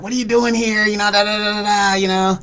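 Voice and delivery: high-pitched imitation of surprised questioners; questioning acquaintances. Acquaintances coming into the store ask why he works there, high-pitched mimicry. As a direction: mimic them in a high voice, trailing into da-da-da. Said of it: "and they're like".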